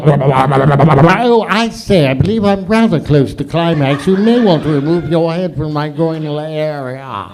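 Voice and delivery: prim, overly polite warning; posh gent. Retold or imitated. A hint of a posh gent mocking the warning girls want. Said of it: "you want me to go".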